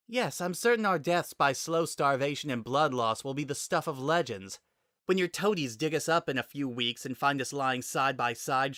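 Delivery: put-on needling her old enemy with her victories; sarcastic Samus. A narrator's reading. Narrator voices Samus taunting.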